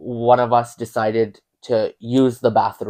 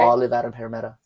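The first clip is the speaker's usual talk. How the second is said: put-on Australian accent, run-together words; Renee; faster than usual. Imitating the Australian friend, Australian accent. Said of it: "what did you even say?".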